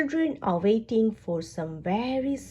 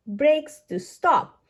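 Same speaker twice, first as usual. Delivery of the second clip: slow emphasis; 4 semitones higher, 4 dB louder, slower than usual. Acted. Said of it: "says Officer Squirrel".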